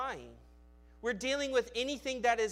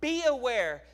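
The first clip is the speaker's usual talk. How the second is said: louder and higher, each phrase punched out; emphatic calls; 4 semitones higher, 5 dB louder than usual. Shown as a demonstration. Preacher showing the congregation what "indeed" means, emphatic. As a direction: grab the room's attention with every phrase. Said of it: "It's like emphasis".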